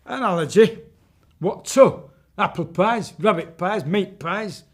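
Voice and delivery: high, loud incredulous witch; witch baffled. Acted. Witch puzzled by the allergy, high and loud. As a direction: act baffled as the old witch. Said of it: "witch reacts".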